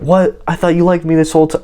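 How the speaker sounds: high, quick show of indignant disbelief; mock shocked. How he didn't react to her on the phone, mock shocked. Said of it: "acting shocked that she was acting shocked".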